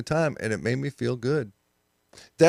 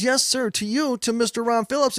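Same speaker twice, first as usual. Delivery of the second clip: put-on higher, sing-song Southern waitress accent; mock Southern accent, higher and syrupy; 9 semitones higher than usual. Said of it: "she does all the Southern accent stuff".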